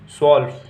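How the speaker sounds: स्वॉल्फ as German twelve, opening on "sw" with no t; silent t. Shown as a demonstration. Teacher modelling German twelve, स्वॉल्फ as "swolf" without t. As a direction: say स्वॉल्फ as one beat, "swolf", the t left silent. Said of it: "इसमें भी silent होता है ये".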